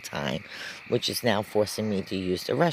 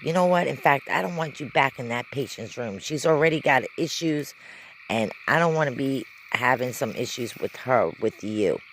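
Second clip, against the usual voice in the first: high, raised voice banning the nurse; angry doctor; 4 semitones higher than usual. Retold or imitated. Doctor ordering the nurse out of the patient's room, high and raised. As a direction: throw her out of the room.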